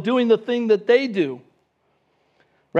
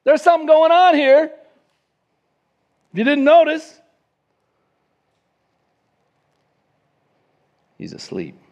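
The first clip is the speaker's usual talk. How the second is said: much higher and louder, sarcastic alarm; urgent wake-up call; 8 semitones higher, 6 dB louder than usual. Retold or imitated. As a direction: shake a sleeper awake. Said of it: "they're kinda like".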